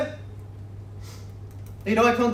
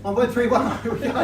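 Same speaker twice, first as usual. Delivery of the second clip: laughing; faster than usual. Real, not acted. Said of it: "Corrected myself".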